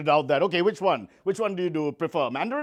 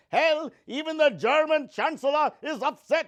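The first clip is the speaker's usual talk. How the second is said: laughing punchline; 7 semitones higher, slower than usual. Real, not acted.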